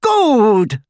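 a mocking laugh on the word; scornful high laughter. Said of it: "laughed Bellatrix".

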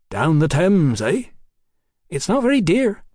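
high-voiced cheeky London girl. A narrator's reading. Hetty voiced in story dialogue.

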